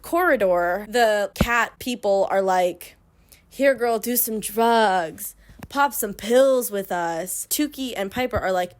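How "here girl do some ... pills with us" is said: slow, drawn-out coaxing; lightly voiced peer-pressure temptress; tempting cat person. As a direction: stretch the words out invitingly. Cat people tempt the girls.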